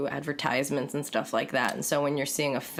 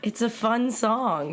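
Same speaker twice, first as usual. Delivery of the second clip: higher, slow mocking repeat; high mocking echo; 6 semitones higher, slower than usual. Mock echo of fun song.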